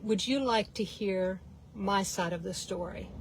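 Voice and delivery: quiet, even question with no edge; calm, not smart aleck. Retold or imitated. Mom asking the rude man calmly, quiet and sincere. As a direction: ask it gently, no sarcasm at all. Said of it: "she didn't say it with a smart aleck tone".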